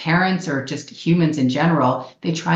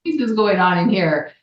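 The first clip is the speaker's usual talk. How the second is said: playful parent; 4 semitones higher than usual. Acted. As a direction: react to the noise with playful wonder. Parent playfully reacting to noisy kids.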